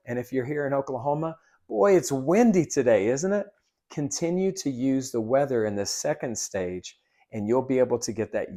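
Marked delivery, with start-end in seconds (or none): 1.7-3.5 bright, higher, louder "Beautiful day", rising on "isn't it"; cheery small talk. Shown as a demonstration. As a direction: chat up the customer about the weather. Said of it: "let me show you".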